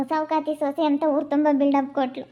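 words dissolving into a gloating laugh; mocking laughter. Mother-in-law laughing as she taunts the daughter-in-law.

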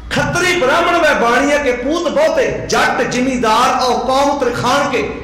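drawn-out verse lines; slow poem recitation. Retold or imitated. Preacher reciting the verse to the sangat, slow. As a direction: chant it steadily, slowing at the end.

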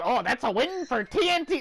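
lilting imitation of a cocky call; mock confident. Gamer imitating his teammate's confident wrong call, mock confident. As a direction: mimic a friend's breezy certainty. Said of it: "Why'd you say it like that?".

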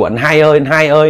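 loud call across the field. Retold or imitated. Younger brother calling his missing brother across the field, loud. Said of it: "kêu rất là lớn luôn".

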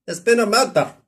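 a hammed-up Scottish detective catchphrase; a self-admittedly weak Scottish accent; Decker's Scottish line. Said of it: "I can't do it like Decker".

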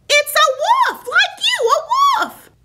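exasperated but giggling, shouting at him; laughing shout. Real, not acted. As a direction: shriek the correction through laughs. Girl correcting him, laughing.

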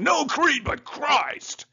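high, loud, drawn-out Scots-Irish cry; mock-grand slogan in a put-on Scots-Irish accent; Campbell. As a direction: proclaim it slowly, high and hammed-up. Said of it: "even though Campbell just got done saying".

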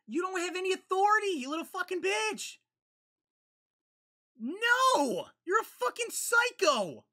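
high, loud, fast-spitting anger; furious yelling. Real, not acted. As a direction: scream insults at the villain on screen. Yelling at character on screen.

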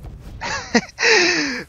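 high squealing laugh. Real, not acted. Laughs after failing.

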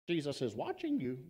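lightly voiced creepy voice, hushed and soft; eerie words into the dark, understated. Parrot repeats to thief, a hint of a creepy voice. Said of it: "that same creepy voice piercing the darkness".

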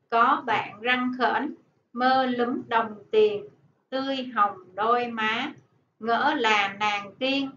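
slow, measured poem recital; poem reading. Acted. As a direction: read the poem slowly to the class. Teacher reads poem aloud.

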